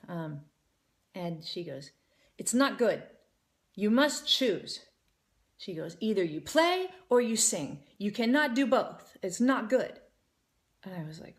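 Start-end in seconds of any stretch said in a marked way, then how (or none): 2.4-4.9 lightly imitated stern teacher; mock stern verdict. Retold stern scolding by a teacher. 6.0-10.0 lightly imitated strict teacher; mock stern ultimatum. Retold stern scolding by a teacher.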